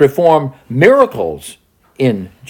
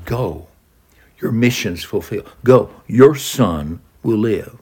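gentle reassurance. Shown as a demonstration. Jesus gently sending the father home. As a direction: release him kindly. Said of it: "He's saying".

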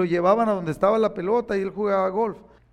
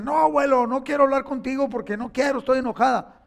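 angry granddaughter; 5 semitones higher, faster than usual. Retold or imitated. Granddaughter's angry refusal voiced.

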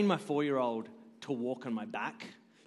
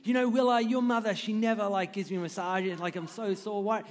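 higher, hammed-up whinge to the kid; mock complaining; 5 semitones higher than usual. Dad complaining to his four-year-old about his wife, hammed-up whine. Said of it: "I started complaining so my four-year-old could hear it".

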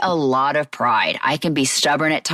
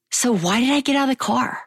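high, baffled self-questioning; exasperated question; 7 semitones higher than usual. Real, not acted. Woman looking back on her wedding day, exasperated. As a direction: ask it high, in disbelief at yourself. Asking herself in exasperated regret.

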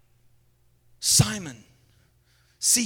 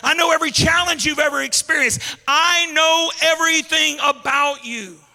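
louder and higher, climbing to the end; preacher voicing Jesus, climbing; building conviction; 4 semitones higher, 4 dB louder than usual. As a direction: press each I know harder. Jesus voiced, rising conviction.

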